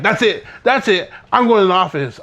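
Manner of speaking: mock indignant threat. Imitating the punched classmate going to the office, indignant threat. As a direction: imitate a fed-up kid storming off to tell.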